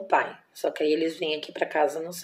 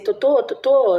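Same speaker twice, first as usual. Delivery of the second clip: higher and louder, calling the pet's name in alarm; frantic calling; 7 semitones higher, 8 dB louder, slower than usual. Retold or imitated. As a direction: call her name urgently as she goes limp. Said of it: "E aí eu comecei". (chamando a porquinha, assustada e alto)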